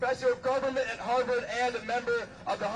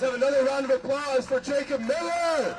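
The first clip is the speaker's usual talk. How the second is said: loud rally call; shouting to crowd; 4 dB louder than usual. Real, not acted. Emcee calls for applause.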